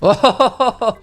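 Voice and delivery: loud, high ohoho of amazement; whooping string of ohs; amazed ohoho. Real, not acted. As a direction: exclaim in high, loud bursts. Reacts to the next patient's face.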